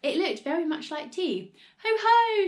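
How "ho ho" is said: loud, high crowing "ho, ho"; triumphant cry. A narrator's reading. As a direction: crow it like you've caught someone out. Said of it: "she cried".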